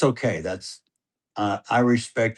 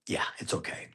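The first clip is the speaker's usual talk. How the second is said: soft reassurance; 14 dB quieter than usual. Retold or imitated. Calming son after a miss.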